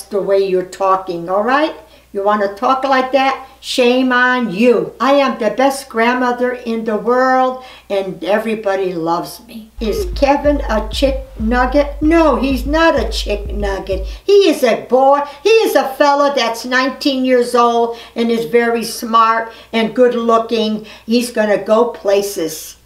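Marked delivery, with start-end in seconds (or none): 2.1-4.9 scolding. Real, not acted. Grandma scolds a rude fan. 21.1-22.8 tender, slowing wish; sincere hope. Real, not acted. Grandma speaking tenderly about grandson Kevin. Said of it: "You're gonna make me tear up".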